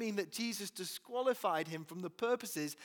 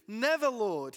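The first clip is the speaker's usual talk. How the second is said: much louder, "Never" punched hard; forceful protest; 5 semitones higher, 10 dB louder than usual. Acted. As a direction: protest hotly, refusing to accept it. Peter rebukes Jesus.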